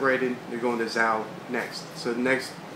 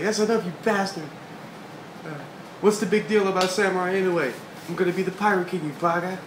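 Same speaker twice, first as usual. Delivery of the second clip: mock yelling; 6 semitones higher than usual. Luffy shouting at Momonosuke, mock angry raised voice. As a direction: bicker like a cocky kid pirate.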